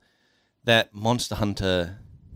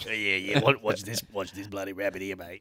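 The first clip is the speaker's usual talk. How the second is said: Aussie magician voice. Acted. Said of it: "This is my character voice".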